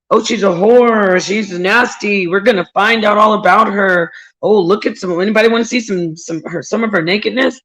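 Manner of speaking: loud, jeering mimicry of gossiping critics; mocking the haters. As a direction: sneer it out like the crowd mocking her. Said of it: "all of this humiliation".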